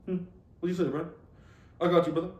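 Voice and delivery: short greetings in an imitated Black American accent; imitation Black American accent; mock Black American accent. Shown as a demonstration. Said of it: "I'll do one right now".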